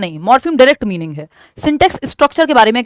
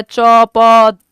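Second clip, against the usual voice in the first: babbling syllables; 2 semitones lower, 5 dB louder than usual. Shown as a demonstration. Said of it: "babbling में single syllable को जोड़ पाता है".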